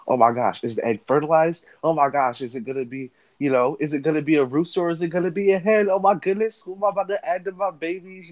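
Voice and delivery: high, fast gushing excitement; overzealous chicken owner. Retold or imitated. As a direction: gush like a fussy chicken owner. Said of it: "that overzealous chicken owner who's like".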